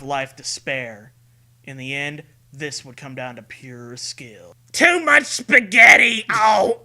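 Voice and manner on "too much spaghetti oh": higher, louder goofy cry; silly shout. Acted. Voicing the monster getting hit, goofy shout. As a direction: yelp like a cartoon.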